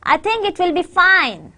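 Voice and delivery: "fine" stressed with a falling tune; example sentence stress. Shown as a demonstration. Teacher modelling sentence stress, FINE stressed and falling. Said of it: "So your stress is on".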